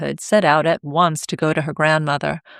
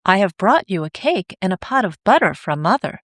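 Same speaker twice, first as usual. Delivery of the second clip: disguised voice. Acted. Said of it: "changing his voice".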